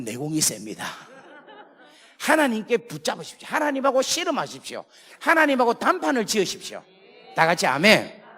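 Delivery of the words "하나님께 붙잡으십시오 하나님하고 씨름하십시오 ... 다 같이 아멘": rising, louder exhortation; preaching at full force. Acted. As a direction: urge the congregation to wrestle God. (힘찬 설교 권면)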